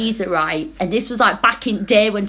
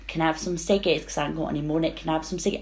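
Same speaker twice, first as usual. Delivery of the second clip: whiny mooch; 6 semitones lower, 9 dB quieter, much faster than usual. Retold or imitated. Mimicking the mooching guy.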